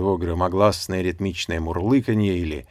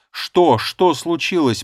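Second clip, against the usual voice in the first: higher and much louder, frantic; on edge; 9 semitones higher, 8 dB louder, slower than usual. A narrator's reading. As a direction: demand an answer right now. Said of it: "повторил я на взводе".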